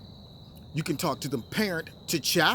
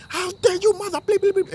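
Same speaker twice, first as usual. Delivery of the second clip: loud, high outraged yelling, bleeps spoken; mock screaming coach; 14 semitones higher, 7 dB louder than usual. Coach yelling at the referee over a call, mock screaming. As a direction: scream it like a furious coach, played for laughs. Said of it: "he's screaming at the ref".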